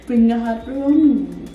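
impression. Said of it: "Try, try to do her".

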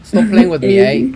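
mock Australian accent sliding toward English. Player showing off to the group, mock Australian accent. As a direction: ham up a bad Australian accent. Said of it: "more of Old English than Australian".

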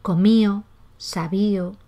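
"comío, sabío" with no D between the vowels; dropped D between vowels. Shown as a demonstration. Teacher giving examples of weakened D, "comío, sabío" without D. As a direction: say "comido, sabido" as "comío, sabío". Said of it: "cuando va entre vocales".

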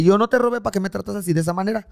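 high, loud offended protest; retold indignant yell; indignant shout. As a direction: shout back in wounded pride. Retold quarrel with the man.

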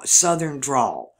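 slow, stretched Southern drawl on the words. Shown as a demonstration. Showing how Southerners drawl, in a slow Southern drawl. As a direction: draw the vowels out long, Mississippi style. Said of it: "We drawl out our words".

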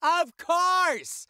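high, loud, drawn-out outburst; emphatic exclamation. Pretend. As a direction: blow it up big and high.

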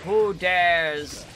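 lightly mimicked booming challenger. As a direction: draw it out with a mild mock boom. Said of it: "like, a booming voice like".

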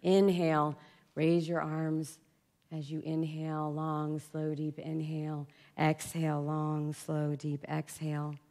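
slow, softening yoga instruction; yoga teacher's cue. Retold or imitated. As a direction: guide the breath slowly as a teacher would. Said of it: "the teacher said".

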